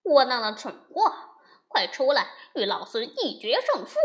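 Monkey King yelling a challenge; loud scolding. Acted. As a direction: bellow it at the cave door. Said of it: "大声骂道". (孙悟空大声叫骂挑战)

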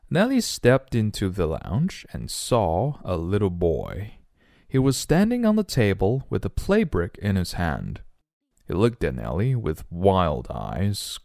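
measured storybook reading in English; story narration. A narrator's reading. Teacher reading a monster-sitter story to the class, measured narration. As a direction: read it out carefully for learners.

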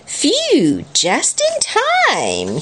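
high storybook relief; hammed-up high voice of relief; relieved character. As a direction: breathe out the relief, then pitch it up. Floppy relieved after escaping danger.

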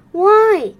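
mild surprise; surprised Moon. A narrator's reading. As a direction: Moon can't believe it.

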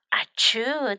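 small mock sneeze; lightly voiced ah-choo; acted sneeze. Narrator retells Fox's sneeze, understated fake sneeze. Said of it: "打了个喷嚏".

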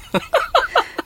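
high-pitched rising laugh. Real, not acted. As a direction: squeal with laughter. Laughs at a singer's joke.

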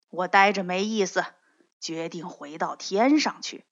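put-on a gentle old sage explaining himself; lightly voiced old immortal. Old man voices long speech.

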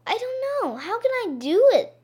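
very high, naive little voice; innocent girl. Acted. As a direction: play dumb sweetly. Gretel plays innocent.

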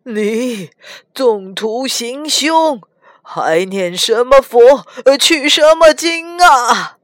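put-on old man cursing the monk, rising to a shout; angry scolding. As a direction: berate the monk, ending in a yell. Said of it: "他指着唐僧骂".

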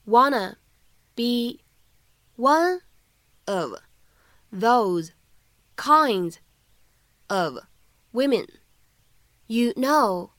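each word said slowly and separately. Shown as a demonstration. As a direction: read it out one word at a time for learners. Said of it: "teacher reads the line slowly word by word". (逐词慢读)

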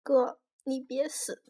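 a touch of tearful pleading, slow; mildly voiced sobbing plea; stuffy-nosed crying. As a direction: plead slowly through a blocked, teary nose. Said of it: "他囔着鼻子说".

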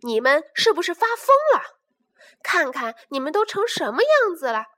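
put-on father shouting at his muddy children; angry shout. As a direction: bellow at the muddy cubs. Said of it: "生气地大叫道".

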